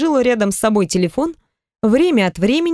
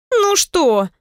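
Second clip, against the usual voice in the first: высокое обиженное «ну что», губы надуты; надуй губы и спроси; надув губы; 9 semitones higher than usual. Acted. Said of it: "надула губы подруга". (подруга обиженно надувает губы)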